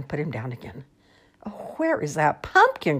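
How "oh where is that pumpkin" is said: put-on croaking old man. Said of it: "croaked the old man".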